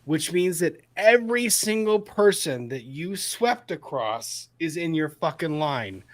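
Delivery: real anger, heavy emphasis on each point; angry. Real, not acted. Host mad at whoever swept people with the gun, angry. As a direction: drive the accusation home, angrily. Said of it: "That made me very mad".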